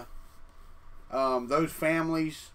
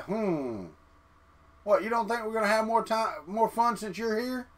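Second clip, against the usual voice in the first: lightly voiced pet slug, a bit higher and sarcastic; voicing the slug; 6 semitones higher than usual. The slug answering his owner, a hint of higher sarcastic voice. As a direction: put mild sass into the pet's words. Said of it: "Slug said".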